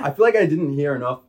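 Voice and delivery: laughing. Real, not acted. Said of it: "laughing after failed accent".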